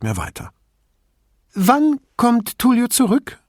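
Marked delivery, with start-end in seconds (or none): 1.5-3.4 put-on high whispered old woman; whispering. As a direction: breathe the question in a whisper.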